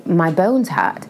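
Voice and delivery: put-on drawn out slow little-girl complaint; slow whiny complaint. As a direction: say it slowly, like a hurting child. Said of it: "go to my mom and say".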